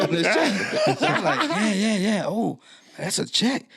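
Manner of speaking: high, laughing excitement; going crazy. Retold or imitated. Opening the envelope of checks, high and giddy. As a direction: squeal with giddy delight. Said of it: "I'm going crazy".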